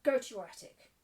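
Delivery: loud, sharp order; commanding. Acted. Mistress sends Becky away, commanding. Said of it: "she commanded".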